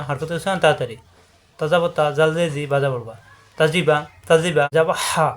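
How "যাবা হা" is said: যাবা হা with হা squeezed from the throat; pressed final H. Shown as a demonstration. Teacher models the word, যাবা হা with pressed H. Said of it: "হায়ে চাপ দিয়ে".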